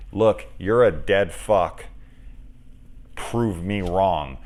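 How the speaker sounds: slow, deliberate challenge; calling him out. Retold or imitated. Woman calls out her lover in a retelling, slow challenge. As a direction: lay down a dare, unhurried. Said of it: "she was calling him out".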